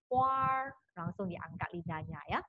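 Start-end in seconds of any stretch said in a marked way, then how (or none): 0.1-0.7 huar with the tongue lifted right at the a. Shown as a demonstration. Teacher demonstrates huar, tongue curled up. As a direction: curl the tongue straight up on huar.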